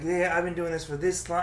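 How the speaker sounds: lightly imitated self-important comic; mild mocking brag; mock boasting. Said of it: "I hate when they said".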